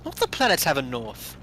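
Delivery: put-on northern English accent; mock northern English accent; Ninth Doctor. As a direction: have a go at northern British. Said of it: "you sound like you're from the north".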